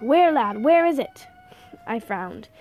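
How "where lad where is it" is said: urgent demand. Acted. Old man urgently seeking package.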